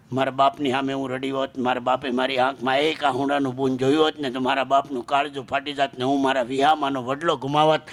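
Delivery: low, subdued daughter's confession; low-pitched sorrowful admission; restrained grief. Acted. Daughter confides her hidden grief.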